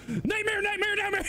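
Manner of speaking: very high-pitched repeated squealing; imitated outburst. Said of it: "just starts going".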